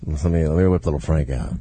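deep sleazy lover voice; low seductive voice. Acted. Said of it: "just something low".

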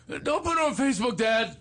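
high-pitched imitation of a worried son; protesting teenage son. Son begging his father, in a high protesting voice. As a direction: plead as an embarrassed kid.

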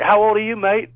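put-on English accent that drifts toward Australian; a shaky English accent from a lad who can't do one. Retelling the irate boyfriend at the wedding, mock English accent. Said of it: "I can't do an English accent. It always sounds Australian".

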